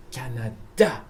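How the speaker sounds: "Canada" with a strong final "da"; French pronunciation. Shown as a demonstration. Teacher repeating the wanted form, "Canada" stressed on its last syllable. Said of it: "please say Canada".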